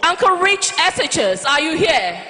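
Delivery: hype call-out. Real, not acted. MC calling out to crowd.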